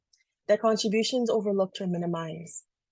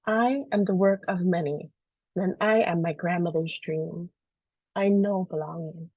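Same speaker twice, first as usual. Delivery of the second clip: teary; 2 semitones lower than usual. Real, not acted. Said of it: "I'm always so teary".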